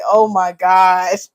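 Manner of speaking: slow, laugh-cracked exclamation. Real, not acted. Confessing her coffee habits to viewers, laughing slowly. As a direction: groan it out through laughter.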